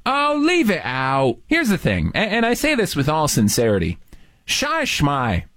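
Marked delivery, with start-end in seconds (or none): 0.0-1.4 put-on Cockney accent. Teasing in British slang.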